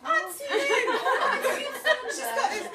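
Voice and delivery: barely holding it together; laughing. Real, not acted. Speaker to guests about her sister, laughing through it.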